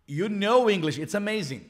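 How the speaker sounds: mock amazement, opening on a loud "whoa"; impressed native speaker. Native speaker hearing a learner's greeting, mildly amazed. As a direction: act lightly wowed. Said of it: "native speakers, they go".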